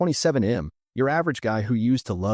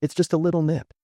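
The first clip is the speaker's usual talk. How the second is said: higher, breezy brush-off of "a little nip"; dismissive aunt; 6 semitones higher than usual. Retold or imitated. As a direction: wave it off like it's nothing, "It's just a little nip". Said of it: "Jack, you're being so dramatic," she says".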